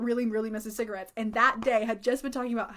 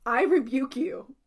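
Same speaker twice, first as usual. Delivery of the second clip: firm rebuke; 2 semitones higher, 5 dB louder, slower than usual. Retold or imitated. E rebukes the stranger firmly.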